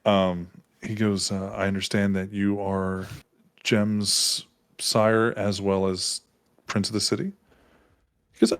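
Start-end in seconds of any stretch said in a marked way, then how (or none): 1.5-7.3 slow, soft, careful question; changed tone. Acted. Eddie asks the prince about Jem's sire, in a changed tone. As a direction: feel out the prince slowly and softly. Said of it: "tone of voice has changed".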